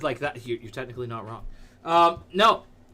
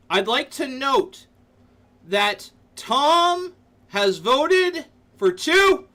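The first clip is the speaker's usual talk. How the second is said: high, slow, scandalised; drawn-out mock outrage; mock indignant; 9 semitones higher, 5 dB louder, much slower than usual. Streamer calling out Tom's double vote, slow and mock scandalised.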